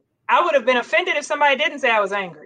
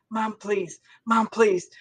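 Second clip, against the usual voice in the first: hushed plea, easing to normal volume; imitated pleading daughter; 2 semitones lower than usual. Eighth-grade daughter to mom at a police stop, hushed pleading. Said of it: "she goes, before he even walked up".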